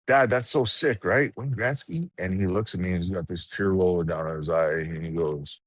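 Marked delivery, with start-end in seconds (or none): 0.1-2.1 excited son. Retold or imitated. Excited son asks dad.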